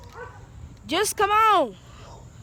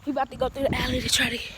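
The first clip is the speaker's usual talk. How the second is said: panting, rushed words; out of breath; 4 dB louder, faster than usual. Real, not acted. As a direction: talk while gasping for air. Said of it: "oh, I'm out of breath".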